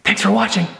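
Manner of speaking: high whisper; whispered sign-off. Real, not acted. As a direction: whisper the thanks.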